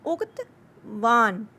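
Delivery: उक्तवान said very slowly, syllable by syllable; slow teacher demo of उक्तवान; slow pronunciation. Shown as a demonstration. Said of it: "next word है उक्तवान".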